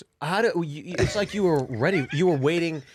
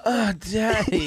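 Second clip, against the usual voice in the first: slow, high, drawn-out moan; mock sexual moan; 7 semitones higher, slower than usual. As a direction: stretch it into a suggestive joke moan. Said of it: "You moan, like, sexually".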